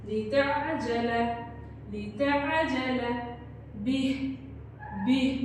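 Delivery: slow chanted tajweed reading; slow recitation. Shown as a demonstration. Teacher repeats the verse for students to follow. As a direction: draw each phrase out in a slow chant. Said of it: "दोबारा पढ़ें".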